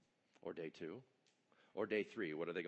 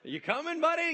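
mock calling down; 13 dB louder than usual. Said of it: "they're just like".

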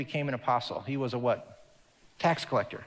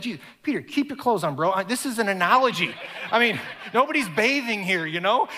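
amused Jesus; 4 semitones higher, 4 dB louder than usual. Retold or imitated. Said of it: "you can just hear".

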